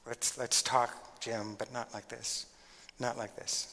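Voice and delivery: slow and soft, easing the tension; softened. Shown as a demonstration. Teacher softening a heated talk with Jim, slow and soft.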